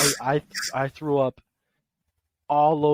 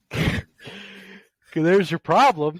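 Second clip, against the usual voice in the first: laughing; 6 semitones higher, slower than usual. Real, not acted. Laughs while teasing friend.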